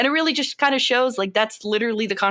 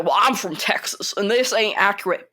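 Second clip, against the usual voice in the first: Sam Elliott. Acted. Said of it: "let me do my Sam Elliott impression".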